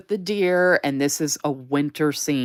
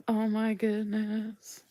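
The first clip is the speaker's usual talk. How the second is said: excited squeal; 8 semitones higher, slower than usual. Real, not acted. Gushing over doll stickers.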